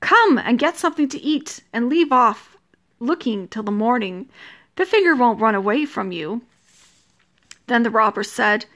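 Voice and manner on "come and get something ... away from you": put-on old woman crying out. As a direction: call them away to eat, fussing. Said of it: "But the old woman cried".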